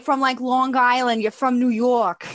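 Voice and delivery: a light put-on New York accent, Long Island style. Shown as a demonstration. Guest obliging the host's request with a mild New York accent. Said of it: "can you do a proper New York, like Joey from Friends".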